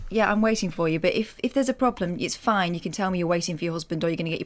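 low, understated forced politeness; thin-lipped polite smile in the voice; politely strained. Retold or imitated. Driver silently tolerating another driver's delay, politely strained. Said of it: "thin-lipped, polite smile that says".

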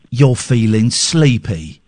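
slow, lightly voiced sleepy meditation guide; half-hearted lull to sleep, slowly; mock hypnotist. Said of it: "'cause he kept going".

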